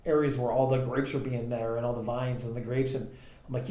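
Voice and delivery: ordinary talk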